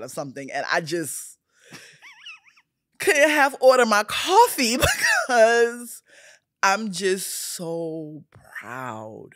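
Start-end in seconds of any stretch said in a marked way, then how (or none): 1.7-9.3 laughing through tears. Real, not acted. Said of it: "I can't contain myself".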